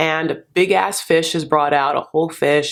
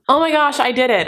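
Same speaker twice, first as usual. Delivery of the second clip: excited cheer; 7 semitones higher, faster than usual. Real, not acted. Celebrating reaching video's end.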